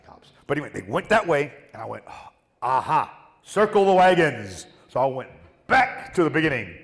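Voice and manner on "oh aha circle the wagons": slow, drawn-out cowboy call; a hammed-up, slow frontier cry; mock battle call. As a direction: stretch it slow like an old western. Mock Old West battle cry.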